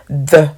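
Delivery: a loud model "the"; th, tongue between teeth. Shown as a demonstration. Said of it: "langue entre les dents".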